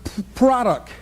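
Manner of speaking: stammering slowly on is and p- of product; friend's stutter while selling, acted out; imitated stutter. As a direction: stumble through the pitch like the friend. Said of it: "she stutters".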